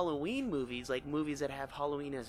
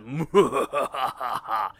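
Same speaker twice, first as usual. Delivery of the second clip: sinister laugh; 10 dB louder than usual. Shown as a demonstration. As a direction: laugh like a villain plotting. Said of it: "I can try to do a sinister laugh".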